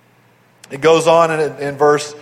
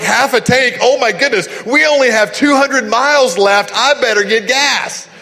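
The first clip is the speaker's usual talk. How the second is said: mildly panicked, higher-pitched mock fretting; jittery; 4 semitones higher than usual. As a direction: imitate a jittery worrier fretting over gas. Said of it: "he would get jittery and he'd go".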